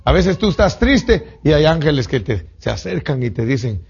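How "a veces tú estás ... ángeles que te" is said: ordinary talk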